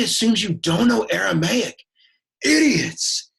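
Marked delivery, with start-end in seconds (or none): 2.4-3.3 high, loud, scornful snap; scornful jab. Acted. Teacher mocks students who don't know Aramaic, scornful snap. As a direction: sneer it at the class.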